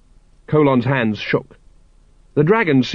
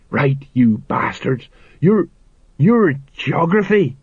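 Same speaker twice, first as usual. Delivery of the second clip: slow, menacing tough-guy voice; gruff threat; 3 semitones higher, slower than usual. Acted. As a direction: growl it at the enemy. Sergeant threatens the dragon.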